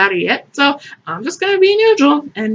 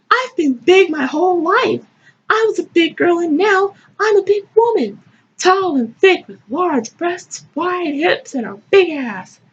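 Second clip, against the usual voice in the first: proud heroine, higher pitch; higher-pitched, declaimed self-description; performed story reading; 8 semitones higher than usual. Acted. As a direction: read it as a self-satisfied narrator, higher.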